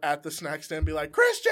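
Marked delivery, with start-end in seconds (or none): 1.1-1.5 a high, loud shout of his name; excited crowd shout; calling out. Retold or imitated. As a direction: call his name across the room like a fan.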